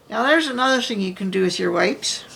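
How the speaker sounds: talking around a paintbrush in mouth; muffled, brush held between teeth. Real, not acted. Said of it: "you can't hear me with a paintbrush in my mouth".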